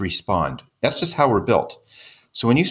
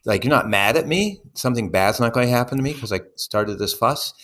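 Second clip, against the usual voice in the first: mock surprise. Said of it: "there's an element of shock".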